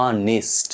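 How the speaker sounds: অনেস্ট said as "o-nist"; careful অনেস্ট ending in "nist"; i sound at end. Shown as a demonstration. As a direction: say অনেস্ট with a short i before st. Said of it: "তারপর উচ্চারণ হচ্ছে".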